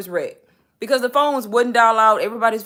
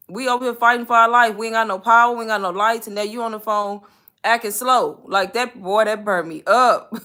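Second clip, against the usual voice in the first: heated rant; 2 semitones higher, 4 dB louder than usual. Retold or imitated. Ranting at phone company agent.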